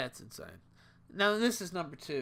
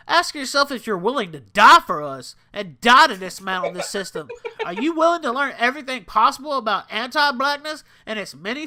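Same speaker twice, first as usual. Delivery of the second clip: put-on black voice; 6 semitones higher, 11 dB louder than usual. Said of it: "I'm giving my black voice here".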